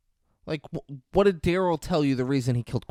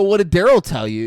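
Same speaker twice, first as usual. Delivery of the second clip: mock loud question; 6 semitones higher, 8 dB louder than usual. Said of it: "I go".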